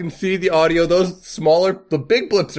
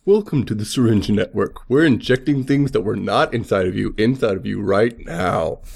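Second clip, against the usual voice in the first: lower, hyped promo announcer; 5 semitones lower than usual. Pretend. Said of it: "Let me do a promo".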